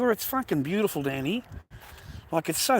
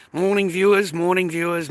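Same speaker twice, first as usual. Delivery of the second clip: high, loud morning hello to viewers; hearty loud greeting to the viewers; 3 semitones higher, 6 dB louder than usual. Real, not acted. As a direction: call out a big good morning.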